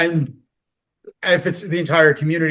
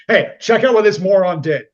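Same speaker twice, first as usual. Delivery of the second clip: louder, higher taunt; mock jeering; 4 semitones higher, 5 dB louder than usual. Onlookers mocking a friend, louder. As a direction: call everyone to laugh at him.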